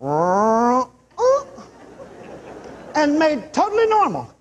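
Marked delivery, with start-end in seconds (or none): 0.0-0.8 vocal sound effect of a leg straightening; drawn-out rising noise; imitated leg noise. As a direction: mimic a twisted limb untwisting. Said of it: "that twisted leg just went".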